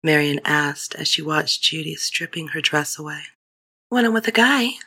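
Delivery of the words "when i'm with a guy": put-on young girl voice. A narrator's reading. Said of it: "Judy replied simply without shyness".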